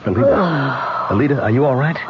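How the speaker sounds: anxious calling her name; worried friend rousing the medium. Acted. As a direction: call her back with concern. Client calls medium from trance.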